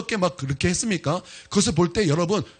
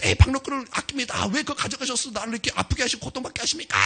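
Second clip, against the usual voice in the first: Jonah arguing with God; 6 semitones higher than usual. Acted. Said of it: "하나님께 막 따지는 거예요".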